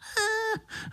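squeaky high laugh; gleeful laugh; high mosquito laugh. Acted. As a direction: burst out laughing. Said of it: "rozesmál se Pišta".

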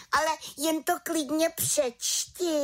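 vykřikla. A narrator's reading. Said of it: "vykřikla malá čarodějnice".

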